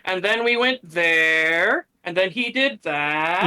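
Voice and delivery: slow, droning imitation of the speaker; mocking his cadence. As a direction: drag out each clause like a dull presenter. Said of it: "is his tone and cadence, the way he, uh, like, speaks".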